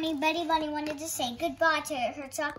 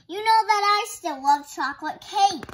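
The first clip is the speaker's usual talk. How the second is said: put-on little girl voice; 4 semitones higher, 6 dB louder than usual. Betty answers her mother.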